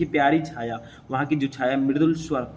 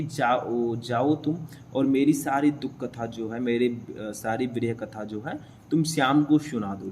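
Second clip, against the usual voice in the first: lovingly; 3 semitones lower than usual. Acted. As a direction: ask it tenderly, as Radha would. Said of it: "प्यार से मैं भी बोल रहा हूँ". (प्यार से, कोमल स्वर में)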